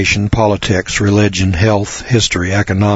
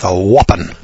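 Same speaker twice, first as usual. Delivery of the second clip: a Southern accent on the single word whooping; 2 semitones lower than usual. Shown as a demonstration. Radio host explaining Southern slang, says whooping in a Southern accent. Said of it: "As they say down here in the South".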